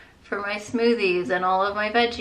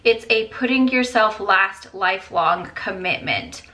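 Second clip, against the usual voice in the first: earnest, louder reading of a heartfelt quote; 3 dB louder than usual. Acted. Mom reading her sister's message to viewers, earnest and louder. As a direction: read it out like it hit you hard. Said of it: "Let me read it to you guys".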